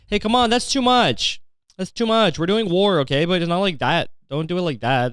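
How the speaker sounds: high, whiny-pleading objection; hammed-up complaint about broken rules; mock protest. Mock objection to war crimes.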